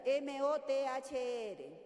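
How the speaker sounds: very slow, each letter spelled out in Spanish. Shown as a demonstration. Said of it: "¿cómo lo pronunciarías tú?". (deletreo lento, letra por letra)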